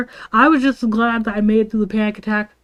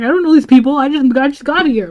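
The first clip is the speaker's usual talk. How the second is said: higher-pitched flustered protest; defensive; 4 semitones higher, 4 dB louder than usual. Retold or imitated. New student pressed for classmates' names, defensive. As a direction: act out pleading ignorance. Defensive answer to friend's demand.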